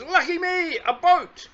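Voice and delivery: put-on storyteller voices Lucky for children, high and eager; eager little bear. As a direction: play the bouncy toy bear itching to go out. Lucky sees boat.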